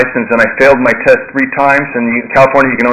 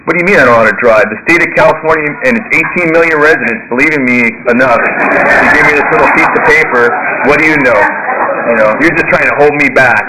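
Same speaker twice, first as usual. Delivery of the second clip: acted-out outrage, pitched up; indignant retort; 3 semitones higher than usual. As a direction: reenact a huffy comeback to a sponsor.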